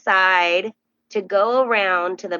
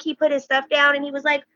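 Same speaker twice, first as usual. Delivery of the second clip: ordinary talk, nothing marked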